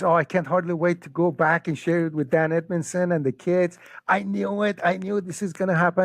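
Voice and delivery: fast, high-pitched excited rush; overjoyed. Retold or imitated. Friend eager to share the conversion news, overjoyed. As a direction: burst out with delighted anticipation.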